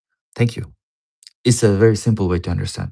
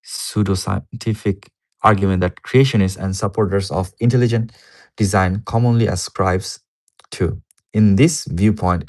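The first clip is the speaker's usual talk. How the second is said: louder, emphatic reading of an academic paper; reading aloud; 4 dB louder than usual. Real, not acted. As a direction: read the paper out firmly.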